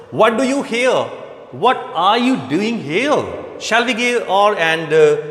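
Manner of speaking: a hint of an angry bosun; angry scolding. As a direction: scold them as a harried bosun. Teacher acts out the bosun's scolding.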